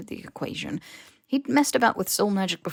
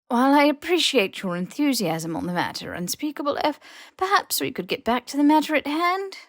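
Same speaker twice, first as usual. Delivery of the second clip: higher, crisp, pointed reproach; stern headmistress; 7 semitones higher than usual. A narrator's reading. McGonagall curbing the Unspeakable, clipped higher stern voice. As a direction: politely cut her off and steer back. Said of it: "McGonagall cleared her throat loudly".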